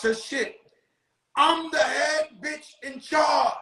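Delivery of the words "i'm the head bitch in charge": hammed-up guard's boast; bossy guard voice. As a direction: bellow it like the boss of the jail. Guard bragging at inmates.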